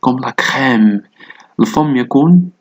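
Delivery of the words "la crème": "crème" slowly, with a wide open è. Shown as a demonstration. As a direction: stretch the open vowel in "crème". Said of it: "la bouche est ouverte".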